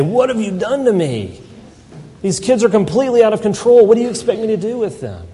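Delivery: put-on a babysitter begging the parents for help; frantic babysitter. Babysitter calling the parents, frantic and fast. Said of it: "a babysitter desperately calling the parents".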